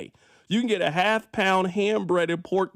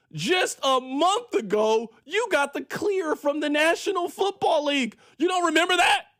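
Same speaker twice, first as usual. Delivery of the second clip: mock stern lecture; 5 semitones higher than usual. Lecturing player like big brother.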